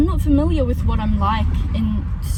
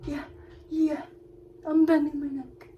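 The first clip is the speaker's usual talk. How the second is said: short high yeahs as the horse; horse's proud voice; 5 semitones higher, 3 dB quieter than usual. Retold or imitated. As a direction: imitate an eager horse, pitched up. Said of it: "he would go like this".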